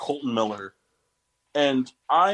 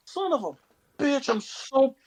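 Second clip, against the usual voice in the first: much higher, very slow drawn-out lament; anguished wail; 13 semitones higher, much slower than usual. Real, not acted. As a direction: mourn the lost pick theatrically. Lamenting lost pick.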